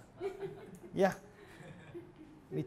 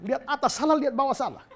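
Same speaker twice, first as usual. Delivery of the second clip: laughing; 7 semitones higher, 8 dB louder than usual. Real, not acted. Laughing at his own embarrassment.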